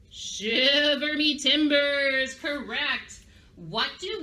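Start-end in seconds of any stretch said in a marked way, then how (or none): 0.1-2.3 loud, drawn-out pirate cry; piratey exclamation. Shown as a demonstration. Teacher showing what pirates say on seeing a sea monster, piratey. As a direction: stretch it out like a startled pirate. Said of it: "we need to sound piratey".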